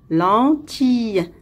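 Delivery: "Lentille" sounded out as len, tille; syllable by syllable. Shown as a demonstration. Teacher locating a sound for pupils, "Lentille" in two clear syllables. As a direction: give each syllable of "Lentille" its own beat. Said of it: "se trouve aussi dans la deuxième".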